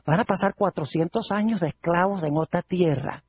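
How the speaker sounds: lightly voiced eavesdropper taking note; Satanás. The devil overhears God's prophecy, understated musing to himself. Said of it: "Satanás dice".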